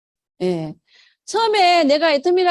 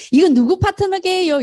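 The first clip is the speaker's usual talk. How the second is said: teasing guess-who lilt, a bit higher; playful teasing question; 6 semitones higher, 3 dB louder than usual. Retold or imitated. Partner on the phone teases the speaker with a playful quiz. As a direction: tease him with a cheerful quiz. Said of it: "이렇게 얘기해요".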